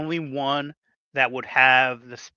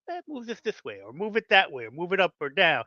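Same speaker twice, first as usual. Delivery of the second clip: mock editor; 3 semitones higher than usual. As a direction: brush it off like a picky editor. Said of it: "they like to".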